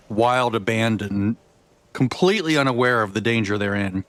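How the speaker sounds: talking while crunching a cone; chewing a crunchy cone mid-sentence; crunching ice cream cone. Real, not acted. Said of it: "Sorry for the crunch".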